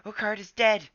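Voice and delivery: high, loud anguished howl. A narrator's reading. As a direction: howl the news of death. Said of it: "he yow-, howled".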